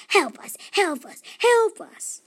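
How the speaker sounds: whispered then loud high help; whispered elf plea. Acted. Elves plead with Felicia, whisper rising to cry. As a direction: start in a whisper, burst out high. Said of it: "they said".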